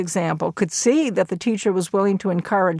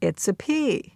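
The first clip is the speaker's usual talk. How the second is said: mildly encouraging lilt on P; 2 semitones higher, 3 dB quieter than usual. Retold or imitated. Teacher helping Freddie with a letter, encouraging. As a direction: gently prompt the pupil with the answer. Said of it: "the teacher encouragingly says".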